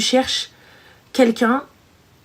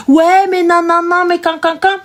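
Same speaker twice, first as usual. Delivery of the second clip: loud, higher-pitched acted objection; agitated protest; 5 semitones higher, 4 dB louder than usual. Acting out the husband protesting to his wife, loud and agitated. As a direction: burst in with stammered protests. Mimics an agitated reply in the demo.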